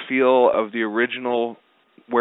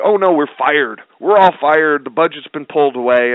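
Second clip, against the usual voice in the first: mock panic; 4 semitones higher, 7 dB louder than usual. Comic guy panicking about firing.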